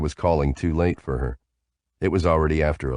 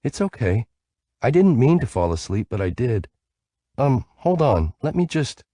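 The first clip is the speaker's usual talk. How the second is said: reassuring; 7 semitones higher than usual. A narrator's reading. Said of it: "then reassured me".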